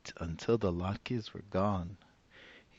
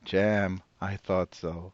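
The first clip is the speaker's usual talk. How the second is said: put-on old woman voice; 5 dB louder than usual. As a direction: play the cheerful old grandmother.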